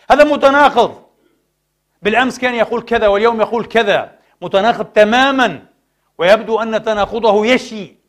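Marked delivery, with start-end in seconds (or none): 0.1-4.8 mock accusation. Critics' accusation acted out.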